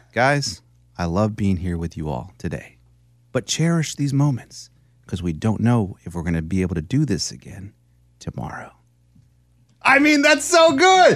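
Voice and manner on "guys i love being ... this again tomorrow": very low, deep, dramatic movie-trailer voiceover. Repeating a line about the show on request: movie voiceover voice. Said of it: "do that voice".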